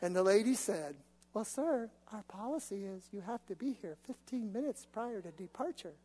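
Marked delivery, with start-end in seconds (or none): 1.3-5.9 a hint of a cool, soft airline clerk; calm agent. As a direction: recite the policy coolly to the angry passenger. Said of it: "calm and collected".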